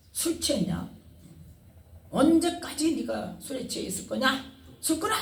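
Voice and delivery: priest's scolding rising to a sharp high yell on 술 끊어; mock scolding. Priest Eli scolding praying Hannah as drunk, mock yell. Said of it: "호통을 쳤겠죠".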